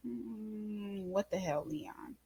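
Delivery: hushed whisper aside; breathless private whisper. Retold or imitated. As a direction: whisper it so nobody else hears. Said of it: "I'm just like".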